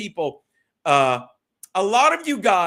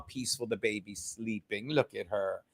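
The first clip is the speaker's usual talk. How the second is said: soft cooing; 8 semitones lower, 10 dB quieter than usual. Real, not acted. Cooing over the sleeping baby.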